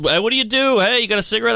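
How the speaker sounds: high-pitched mock pick-up line; woman hitting on someone. Comic showing how easily ladies approach, high mock come-on. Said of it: "She could".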